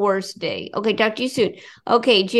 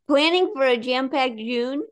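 ad read; 3 semitones higher than usual. Acted. Reads sponsor ad.

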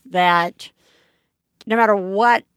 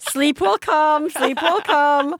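slow, gentle reassurance, higher pitch; mock soothing; 5 semitones higher, slower than usual. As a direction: soothe the tired mom slowly. Soothing the mom mockingly.

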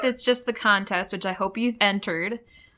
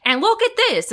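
raised, louder Southern TV preacher; hammed-up Southern televangelist drawing attention to a picture; terrible Southern accent; 9 semitones higher, 4 dB louder than usual. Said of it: "That's my terrible Southern accent".

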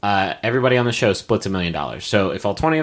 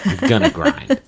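excited. Pretend. Mock declaration about grinding.

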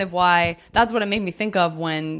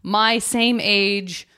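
slow imitated musing; slower than usual. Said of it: "somebody else that'll be like".

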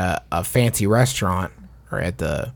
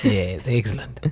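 put-on French accent; 3 dB quieter than usual. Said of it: "Where is this accent going?".

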